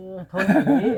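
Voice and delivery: said through a laugh, pitch lifted. Real, not acted. Visitor admiring how sturdy the old house is, laughing. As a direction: let a laugh break into the words.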